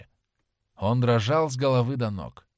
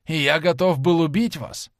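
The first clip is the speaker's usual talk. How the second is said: horrified exclaim; 5 semitones higher, 6 dB louder than usual. Acted. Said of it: "воскликнул он".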